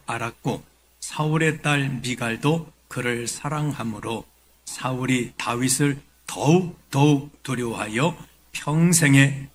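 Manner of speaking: measured, solemn Bible reading; scripture reading. Acted. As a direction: read the passage out formally to a congregation. Reads scripture aloud to congregation.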